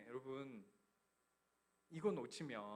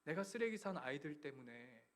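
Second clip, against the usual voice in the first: God tenderly answering the weeping father; gentle voice of God. Retold or imitated. God's gentle reply voiced.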